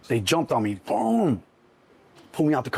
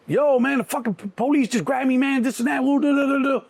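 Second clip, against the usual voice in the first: excited retold call; 11 semitones higher than usual. Calling the cop after the raid, high excited rush. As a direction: rattle it off like you just got grabbed.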